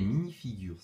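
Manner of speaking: « minifigures » prononcé à l'anglaise, mini-figioures; accent anglais. Shown as a demonstration. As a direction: dites « minifigures » comme un Anglais. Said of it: "désolé pour mon accent anglais". (« minifigures » avec l'accent anglais)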